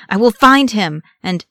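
loud, high, raging vow; enraged cry. A narrator's reading. Gimli vows to find the lost one, enraged. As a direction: cry it out until cut off. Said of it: "rage contorting his face".

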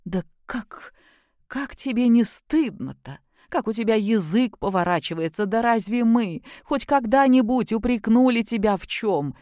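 a touch of choking indignation, rising; outraged mother, mildly voiced; indignant. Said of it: "Зашлась возмущением Любовь Сергеевна".

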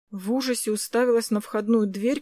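ordinary delivery, nothing marked

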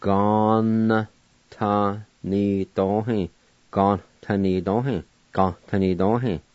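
Gon ta ni do hin with the V silent, syllables separate; teacher modelling Gon ta ni do hin; model pronunciation. Shown as a demonstration. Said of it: "it's pronounced like this".

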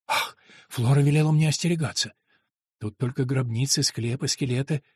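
лёгкий голос испуганной девушки, нарастающая мольба; тихая растерянность, потом мольба о пощаде; испуганная девушка. Acted. Голос героини Антонии. (испуганная Антония умоляет монаха отпустить её)

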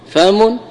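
فم said as fam, open a after the f; فم بفتح الفاء; fam with fatha. Shown as a demonstration. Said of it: "بفتح الفاء".

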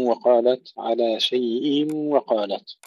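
على شيء with a full clear kasra on the tanween. Shown as a demonstration. Teacher shows the correct kasra on على شيء. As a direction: make the kasra of شيء distinct before the waw. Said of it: "نحقق الكسر".

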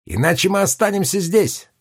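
put-on high, fast boyish cry; lion cub's ringing boyish shout; ringing boy's shout. A narrator's reading. Lion cub insisting.

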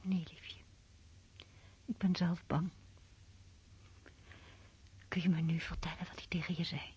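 hushed bedtime whisper; night whispers. Acted. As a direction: whisper so nobody wakes.

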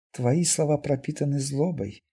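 soft, hurt, lightly trembling. Acted. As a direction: hold back upset while accusing him. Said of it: "дрожащим голосом обратилась к Костоправу мутантка". (тихо, с лёгкой дрожью в голосе)

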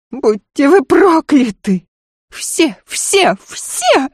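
shrieking lady. Acted. Lady shrieks while dragging the maid by the hair. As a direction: scream in outrage at the maid. Lidia cursing.

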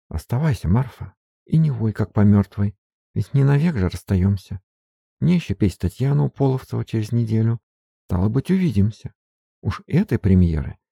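a hint of firm mistress; firm Sofya. Sofya firmly ordering her maid to stay. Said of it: "Софья твёрдо оборвала её".

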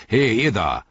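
rough command, easing on the last word; bellowed order. A narrator's reading. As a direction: bark it at two slackers. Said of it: "brüllte".

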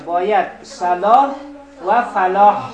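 loud, deliberate صلاح و فلاح with a clear final ح; correct pronunciation. Shown as a demonstration. Teacher drilling students on the call to prayer, loud careful pronunciation. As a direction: press out the ح at the end of صلاح and فلاح. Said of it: "صلا و فلا نادرسته".

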